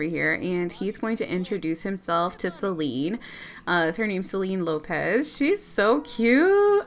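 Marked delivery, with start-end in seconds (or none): 5.4-6.8 gushing. Real, not acted. Gushing over a sim.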